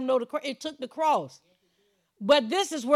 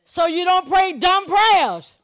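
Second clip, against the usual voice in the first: louder, rising preacher's cadence, punching the key words; full-force preaching; 4 semitones higher, 4 dB louder than usual. Real, not acted. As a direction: drive it home to the congregation.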